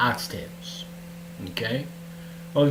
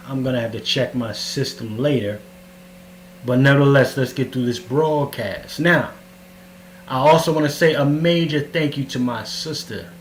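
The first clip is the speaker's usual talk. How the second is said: cave echo. Real, not acted. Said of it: "Sounds like you're in a cave".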